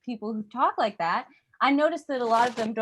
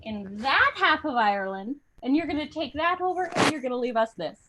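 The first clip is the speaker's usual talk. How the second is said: lilting Irish instructions; Irish accent; 3 semitones higher than usual. Acted. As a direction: hand out directions in an Irish accent. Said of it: "they were like".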